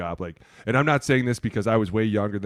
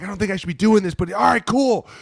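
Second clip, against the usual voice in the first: higher, hesitant going along; reluctant kicker voice; 9 semitones higher, 4 dB louder than usual. Retold or imitated. Kicker agreeing to a headbutt, higher reluctant voice. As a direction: sound unsure but game, pitched up.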